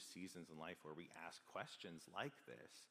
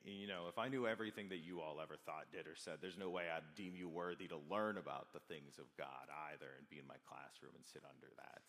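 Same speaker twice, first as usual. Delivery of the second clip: breaking tone; 6 dB louder than usual. Retold or imitated. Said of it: "break his tone a little bit".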